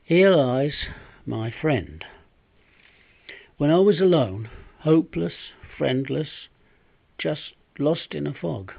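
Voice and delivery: heartfelt storytelling in verse, with weighted pauses; dramatic monologue recitation. Acted. Once-broke man recalling the stray dog that saved him, recited dramatically. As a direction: recite rhyming verse as a down-and-out man's memories.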